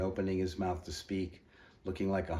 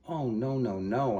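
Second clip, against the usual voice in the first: cheerful insistence; 5 semitones higher, 5 dB louder, slower than usual. Acted. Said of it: "I insisted cheerfully".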